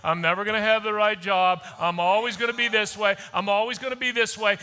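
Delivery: low, resigned self-talk, lightly voiced; imitating defeated talk. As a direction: mutter it like a hopeless person. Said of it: "talking like this".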